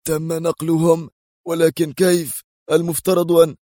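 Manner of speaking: high, agitated disbelief; startled exclamation. A narrator's reading. Jolted security chief questions the move, exclaiming. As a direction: exclaim in shock, pitch jumping up. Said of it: "وهو يهتف".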